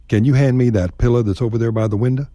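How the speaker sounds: casual Texan ask with "pilla" and "winda". Shown as a demonstration. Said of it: "Say window and pillow".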